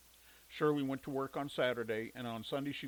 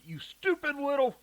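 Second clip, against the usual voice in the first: high, loud angry yell; 12 semitones higher, 8 dB louder than usual. A narrator's reading. Mother yelling at her children from the bedroom, angry high yell. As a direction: bellow it from the next room. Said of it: "Shirley yelled from her bedroom".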